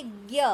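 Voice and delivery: ज्ञ sounded out as one "gya" syllable; a clear, separate ज्ञ, g gliding into ya; pronunciation demo. Shown as a demonstration. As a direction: model ज्ञ clearly for learners to try. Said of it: "तो आप उच्चारण करके देखिए".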